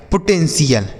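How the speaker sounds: falling "पोटेंशियल", only the first T sounded; correct pronunciation. Shown as a demonstration. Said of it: "टी आई ए एल को पढ़ा जाएगा सीएल".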